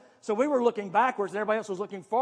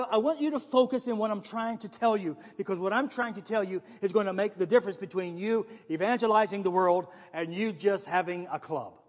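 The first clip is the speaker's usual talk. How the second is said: ordinary delivery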